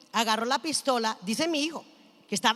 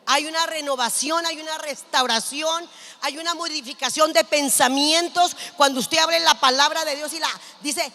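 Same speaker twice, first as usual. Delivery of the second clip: louder, building preacher's delivery; emphatic preaching; 3 semitones higher, 6 dB louder than usual. Real, not acted. Preacher urging renovation through the word, emphatic and rising in force. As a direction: preach it, punching each phrase.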